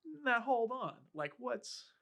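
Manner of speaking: hammed-up charmer calming her down; mock soothing Keith.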